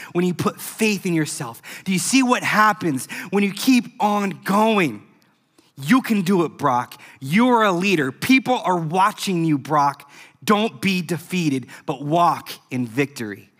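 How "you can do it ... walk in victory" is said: encouraging. Acted. Preacher encouraging Brock directly.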